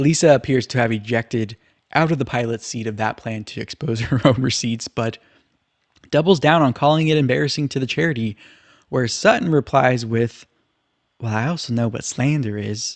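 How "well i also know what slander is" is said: put-on Southern accent. Recapping a dispute, quoting Sutton's reply to Lisa in Sutton's southern voice. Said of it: "in her southern voice".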